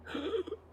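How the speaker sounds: soft high-pitched gasp; mimed unconscious gasp. Pretend. Game master mimes the unconscious player, soft high gasp. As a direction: act out a small involuntary gasp.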